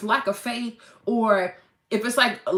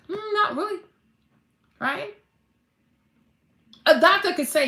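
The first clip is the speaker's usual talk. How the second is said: ordinary delivery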